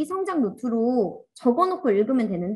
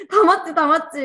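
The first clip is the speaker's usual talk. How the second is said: louder, high, brushing-off "sure, you're right"; mock dismissive agreement; 7 semitones higher, 7 dB louder than usual. Teacher mocking careless readers: loud high brushing-off agreement. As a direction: wave it away with a loud, high shrug of a voice. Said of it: "이렇게 하거나".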